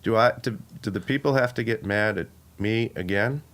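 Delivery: lightly voiced reluctant commissioner; halting, bland and a touch low; Roger Goodell impression. Reluctant commissioner pleading with a team owner, understated impression. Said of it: "how to do a Roger Goodell".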